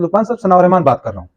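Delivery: quick, casual phone intro; just rattle off your name; quick everyday phone greeting; plain casual intro. Shown as a demonstration. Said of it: "Now you see the difference".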